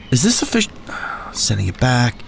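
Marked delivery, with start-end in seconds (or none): 0.1-0.7 high unvoiced whisper of panic; panicked whisper. Gary whispering in shock over the transfer notice. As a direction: breathe it out in alarm.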